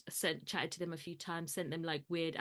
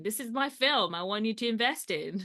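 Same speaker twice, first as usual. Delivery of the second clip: pitch deck voice; 4 semitones higher, 6 dB louder than usual. Pretend. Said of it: "like I'm doing, like, a pitch deck presentation".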